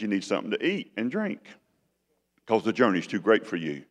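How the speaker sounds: a hint of a gentle father. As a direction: coax him tenderly. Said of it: "He's so gentle with him".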